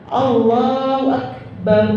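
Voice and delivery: slow takbir, "Akbar" ending short; correct takbir. Shown as a demonstration. Teacher shows the right takbir meaning God is Great. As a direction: end "Akbar" crisply and short. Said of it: "Allah Maha Besar".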